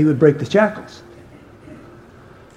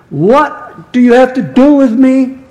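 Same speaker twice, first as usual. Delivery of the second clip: raised, slow challenge to Jesus; mock shout; 7 semitones higher, 3 dB louder, slower than usual. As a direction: imitate a possessed man shouting, half-strength. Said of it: "he's shouting at Jesus".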